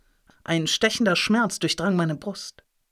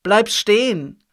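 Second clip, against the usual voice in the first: higher, louder, slow shout; 5 semitones higher, 7 dB louder, slower than usual. A narrator's reading. Grandfather chasing Linus, shouting slowly and loudly. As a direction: yell it across the beach, slowly. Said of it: "hörte ich ihn rufen".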